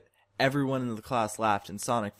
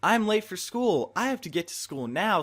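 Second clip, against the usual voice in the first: panicked scream; 8 semitones higher, 4 dB louder than usual. Acted. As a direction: yell it in alarm at being late. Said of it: "and Sonic screamed".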